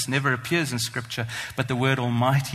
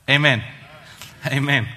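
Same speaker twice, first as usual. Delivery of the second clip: a ringing, louder Amen; 4 dB louder than usual. Real, not acted. Preacher leading the congregation's Amen, louder. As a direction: call the Amen out to the room. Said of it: "And can I hear?".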